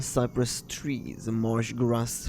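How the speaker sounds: story narration. A narrator's reading. Narrator listing lake images on a screen, story narration.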